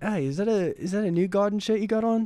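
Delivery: very high, put-on Australian accent. Retell what a man said about your shirt, mimicking his accent. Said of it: "I'm gonna mimic his accent".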